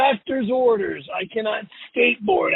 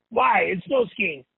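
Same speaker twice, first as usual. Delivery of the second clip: ordinary talk, nothing marked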